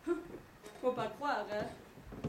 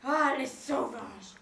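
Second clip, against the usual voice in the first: slow, drawn-out exclamation at usual volume; indignant exclamation; slower than usual. Retold or imitated. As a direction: stretch out the exclamation, appalled. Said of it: "je peux pas m'empêcher de m'exclamer". (exclamation indignée, lente et appuyée)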